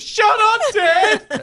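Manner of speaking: high, exasperated mock shout; mock exasperated yell. Child to teasing dad, high mock exasperated shout. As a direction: yell it back like a fed-up kid.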